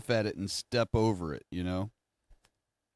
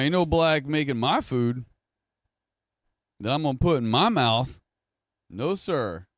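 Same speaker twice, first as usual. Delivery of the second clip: scornful refusal; 4 semitones higher than usual. Retold or imitated. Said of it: "And be like".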